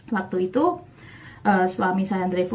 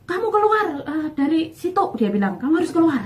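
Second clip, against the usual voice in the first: retold furious husband demanding she leave church; angry husband's order; 7 semitones higher, faster than usual. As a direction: bark it like an angry husband over the phone.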